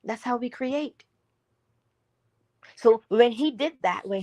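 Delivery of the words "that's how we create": "That's how we create" repeated much softer, almost to oneself; soft echo. Shown as a demonstration. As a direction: let "That's how we create" sink in quietly. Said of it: "repeats the line twice".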